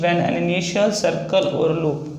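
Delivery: reads the rule out very slowly, word by word; slow dictation pace, each word spaced out; slow, careful recitation of the rule; slow rule reading. Shown as a demonstration. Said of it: "a rule में बोला गया है".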